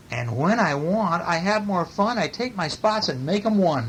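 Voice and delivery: animated picture-book read-aloud; story reading. A narrator's reading. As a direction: read it with big, stretched key words.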